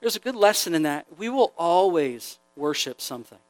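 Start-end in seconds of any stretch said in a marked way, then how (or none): 1.2-3.4 quiet emphasis. Shown as a demonstration. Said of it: "repeated for emphasis".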